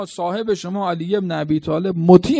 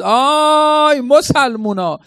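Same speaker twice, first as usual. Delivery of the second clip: slow, drawn-out call, higher and louder; retold battle cry; 7 semitones higher, 4 dB louder, much slower than usual. Imam Ali crying out to the troops at Siffin, a drawn-out call. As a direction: call out across the battlefield to the Muslims. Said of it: "فریاد زد".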